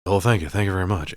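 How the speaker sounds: leprechaun lightly imitating a rock-and-roll singer. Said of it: "he's way better at it than this other dude".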